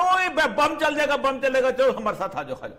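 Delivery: high, loud scare talk, calming toward the end; mock alarmist warning. People spreading bomb fears to recruit allies, high mock alarm. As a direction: mimic a scaremonger warning of bombs. Mimicking fear-mongering threat.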